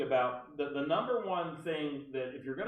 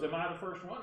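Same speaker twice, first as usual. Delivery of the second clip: put-on caller's accent, pitched up; Barbara Delano; 6 semitones higher than usual. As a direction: imitate her accent on a higher question. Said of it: "I have to use her accent".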